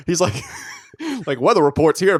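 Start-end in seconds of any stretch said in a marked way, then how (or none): 1.4-2.2 higher, louder Southern impression; Southern accent. Retelling a man down South, mock Southern accent. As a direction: put on a Southern weatherman's twang. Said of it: "home in the South, and he's like".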